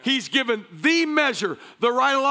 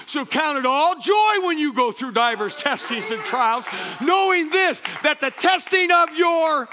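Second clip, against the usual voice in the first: preaching fervor; 3 semitones higher than usual. Real, not acted. Building scripture declaration.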